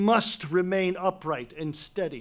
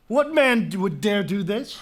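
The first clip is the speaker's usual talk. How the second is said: outraged outburst; 4 dB louder than usual. Acted. King hearing of the burial, outraged loud demand. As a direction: erupt at the news.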